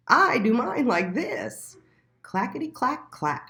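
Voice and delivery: clacking out the sounds; goat voice. A narrator's reading. The goat showing Little Mole its droppings, loud and pleased.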